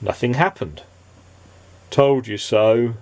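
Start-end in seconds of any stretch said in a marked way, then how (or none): 1.9-2.9 resigned Nobody. Acted.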